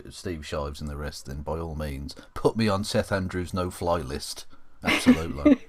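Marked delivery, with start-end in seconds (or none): 4.8-5.6 emphatic yes. Real, not acted. Emphatic agreement, joking.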